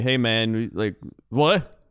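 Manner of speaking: laughing, dopey stoner drawl; goofy stoner. Retold or imitated. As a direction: play a spaced-out stoner. Mocking bad stoner acting.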